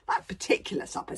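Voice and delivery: a giant savouring every word of his philosophy; pompous dragon philosopher. Acted. Dragon lecturing Hiccup on life, loud and grandiose.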